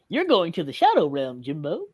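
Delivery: lightly voiced cartoon dad; a hint of a gruff cartoon dad; Hugh Neutron voice. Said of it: "let me try".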